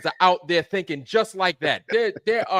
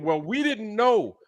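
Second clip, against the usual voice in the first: mocking excuse; slower than usual. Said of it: "coming out and saying".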